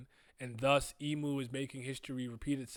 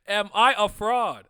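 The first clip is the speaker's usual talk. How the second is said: louder, slow, through laughter; laughing; 6 semitones higher, 14 dB louder, slower than usual. Retold or imitated. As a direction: repeat it, cracking up. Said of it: "and I'm like".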